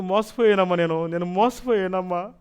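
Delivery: slow, drawn-out tearful cry; retold slow sobbing; weeping lament. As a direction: lament being deceived, slowly. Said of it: "అని ఏడుస్తూ".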